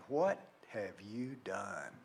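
low, soft, slow disappointed question; a hint of a grave coach, slowed right down; stern coach, quiet. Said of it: "sat me down and said".

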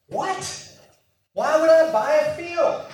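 high, disbelieving squeak of a question; incredulous what. Retold or imitated. Jeremiah baffled by God's order, high disbelief. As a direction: act out the shock of being told to buy.

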